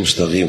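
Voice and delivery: مستقيم quickly with gh for ق; wrong ghayn in مستقيم; qaf as ghayn. Shown as a demonstration. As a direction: say mustagheem for مستقيم. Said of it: "ما في شيء اسمه".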